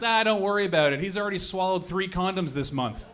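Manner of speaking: casual retold reassurance; mildly imitated laid-back girlfriend; calm. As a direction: shrug it off, unbothered. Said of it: "She's all calm".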